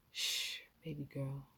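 soft unvoiced hush, close to the ear; whispered. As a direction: breathe it like a secret. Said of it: "as you whispered".

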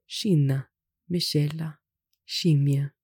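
"scinna, miscela, scimmia" with SC as sh; SH sound. Shown as a demonstration. Teacher lists examples of SC before E and I, SH sound. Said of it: "it's pronounced like a sh".

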